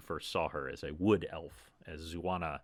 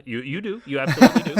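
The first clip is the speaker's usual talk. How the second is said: 1 loud insistence; 8 semitones higher, 14 dB louder, much faster than usual. Acted. GM laughing insistence in character.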